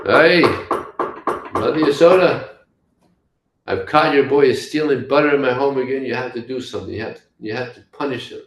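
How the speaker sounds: high, loud complaint hollered through a door; indignant shouting. Acted. Gopi hollers at Mother Yasoda about her butter-stealing boy, indignant shout. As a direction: call out loudly, then rush on in high-pitched outrage.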